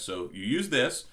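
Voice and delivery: ordinary talk, nothing marked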